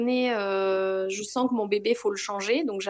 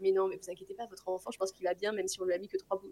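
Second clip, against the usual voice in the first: soothing midwife; 5 dB quieter, faster than usual. Retold or imitated. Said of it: "Elle me dit".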